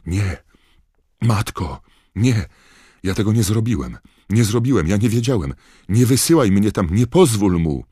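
high, loud, panicked protests; frantic, terrified young man; screaming. A narrator's reading. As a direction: scream for mother, mounting to hysteria. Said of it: "Młodzieniec znowu zaczął krzyczeć".

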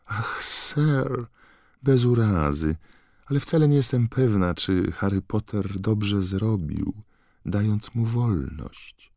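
high, worried elf voice; a nervous servant elf tutting; high anxious elf, slow at the end; fretful house-elf. Acted.

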